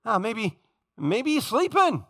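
lilting taunt, swooping up high on the key word; taunting, playful speculation; mocking taunt. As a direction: tease them with exaggerated mock guessing. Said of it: "He starts mocking them".

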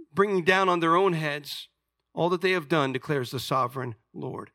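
measured, deliberate scripture reading with weighty pauses. A narrator's reading. Preacher reads God's judgment to the congregation, measured scripture reading. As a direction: read the verse solemnly, falling away at the close.

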